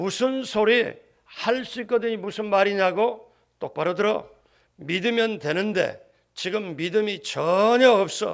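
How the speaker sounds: stern, reprimanding tone. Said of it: "예수님이 이런 톤으로 얘기하신 거예요".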